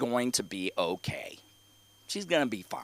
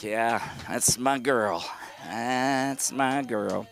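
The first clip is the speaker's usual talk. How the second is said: proud parent; 3 semitones lower, 4 dB quieter, much slower than usual. Retold or imitated. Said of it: "And I was like".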